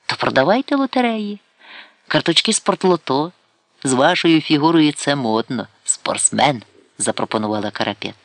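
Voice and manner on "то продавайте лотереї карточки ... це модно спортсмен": Karapet dismissive. Acted. Karapet lecturing Sidalkovsky about work, scoffing. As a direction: scoff and then push advice.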